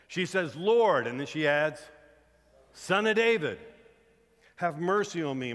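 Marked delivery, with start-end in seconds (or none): 0.5-1.1 loud, high cry for help. Retold or imitated. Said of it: "crying out for her sick daughter". 2.7-5.5 high, loud plea for help; crying out. Retold or imitated. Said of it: "crying out for her sick daughter".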